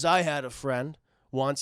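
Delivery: low, slow, grim retelling; lightly voiced brooding tough guy; brooding loner. Dredd recalls his one friend, lightly acted brooding.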